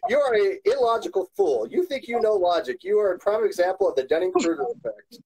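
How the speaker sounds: hate mail read-out. Retold or imitated. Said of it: "I'll read it to you".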